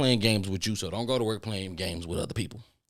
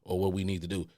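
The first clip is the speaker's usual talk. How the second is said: sudden calm ask; 5 semitones lower than usual. Retold or imitated. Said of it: "all of a sudden be like".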